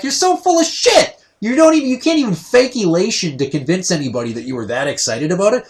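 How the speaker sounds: very high, loud scornful outburst; hammed-up outrage at mom's fake joy; incredulous rant. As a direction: call out her lie. Ranting at his mom's claim.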